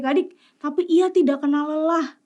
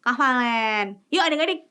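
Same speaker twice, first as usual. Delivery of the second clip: normal talking voice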